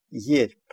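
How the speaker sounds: "Ерп" with final b sounded as p; teacher's careful "Ерп", ending on p; demonstrated pronunciation. Shown as a demonstration. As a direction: model "Ерп", releasing a separate p after r. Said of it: "произносится «п» после согласных «р»".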